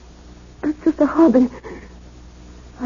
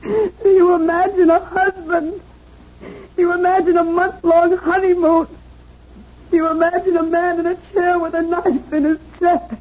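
tearful pleading; 3 semitones higher than usual. Acted. Woman insists on murder, crying.

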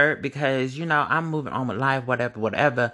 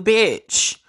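high, loud exclamation; emphatic high bitch; 10 semitones higher, 5 dB louder than usual. Real, not acted.

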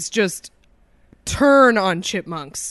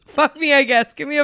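robot voice; 4 semitones higher, faster than usual. Retold or imitated. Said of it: "a text-to-speech".

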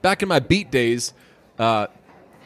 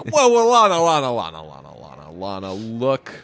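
singer voice; 3 semitones lower than usual. Retold or imitated.

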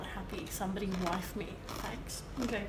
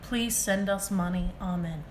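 mock prayer; 3 dB quieter, slower than usual. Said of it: "This is the prayer".

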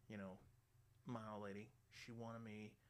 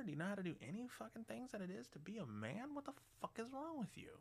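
hammed-up outraged rant, pitched up; mock rant; 9 semitones higher than usual. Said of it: "you wanna sit there and go".

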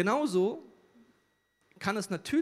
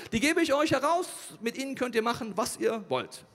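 raised, high pleading bargain; urgent offer; 7 semitones higher, 5 dB louder than usual. Acted. Lot offers the mob a deal, urgently calling out. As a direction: call out the offer to a crowd.

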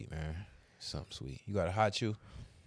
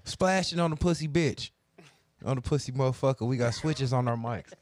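drill rapper voice. Pretend. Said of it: "I'm a drill, drill podcaster".

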